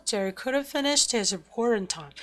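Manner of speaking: "couldn't finish" squeezed into one beat; quick contracted rhythm. Shown as a demonstration. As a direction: rush through weak "couldn't", keep "finish", "report", "time" stressed. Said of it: "이거를 좀 빨리 읽게 돼요". ("couldn't"를 빨리 축약하고 내용어에만 강세)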